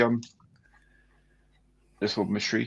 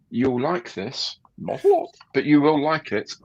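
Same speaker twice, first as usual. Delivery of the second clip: playful patter, middle phrase leaping high; showman's catchphrase; 4 semitones higher than usual. Acted. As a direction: tease it like a stage entertainer, with a sudden squeaky-high aside. Playful catchphrase shown to a viewer.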